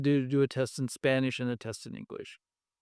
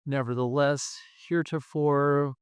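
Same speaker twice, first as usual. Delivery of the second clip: formal transitions; slower than usual. Shown as a demonstration. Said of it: "versus if you can say".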